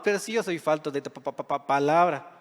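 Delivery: stammering on the pa- of palabra, repeating it; a light, mock stammer as Moses; mock stutter. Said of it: "dice que él era tartamudo".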